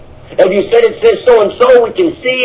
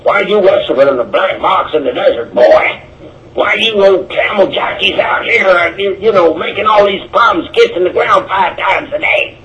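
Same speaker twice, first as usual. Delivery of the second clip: mocking attacker. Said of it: "how he attacked you".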